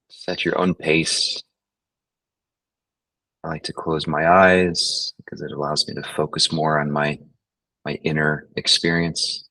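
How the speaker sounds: unhurried meditation guide, long pauses; guided meditation. Acted. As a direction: guide them gently through the breathing, leaving space. Leads a breathing meditation.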